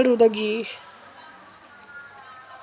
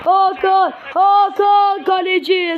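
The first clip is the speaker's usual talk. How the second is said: excited commentator call; 5 semitones higher than usual. Acted.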